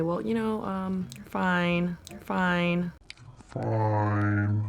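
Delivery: slow, drawn-out condescension; mock dismissive doctor. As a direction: brush it off like a doctor.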